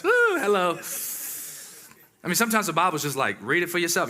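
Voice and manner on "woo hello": excited whoop. Real, not acted. Preacher's excited exclamation.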